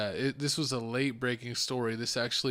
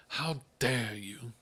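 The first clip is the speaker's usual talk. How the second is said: mock scolding; much slower than usual. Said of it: "scolding and berating her".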